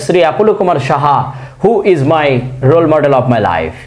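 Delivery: very slow, carefully spaced English words; slow deliberate English. Real, not acted. Teacher reassuring students, speaking slowly in English.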